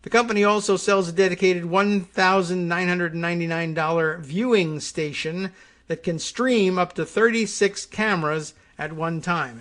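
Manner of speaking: steady, clear read-aloud delivery; lively informational reading; news article read. Acted. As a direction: read the article copy out evenly to listeners.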